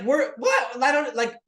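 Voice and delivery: high, shocked wife voice. Retold or imitated. Wife hearing the price over the phone, high shocked disbelief. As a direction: squeak it out in disbelief. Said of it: "She's like".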